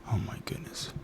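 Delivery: voiceless whispered oh my goodness; whispered exasperation. Real, not acted. Ranting about Dewey doing nothing, whispered exasperation. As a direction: sigh it out under your breath.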